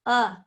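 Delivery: UH as a reduced vowel, not a short A; schwa sound. Shown as a demonstration. Teacher isolates the first sound of ago, UH as a schwa. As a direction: say UH on its own as a lazy vowel. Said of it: "is clearly not the ah sound".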